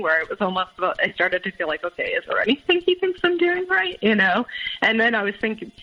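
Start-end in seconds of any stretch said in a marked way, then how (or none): 1.8-4.0 retold self-doubt. Voicing her own exasperated doubt.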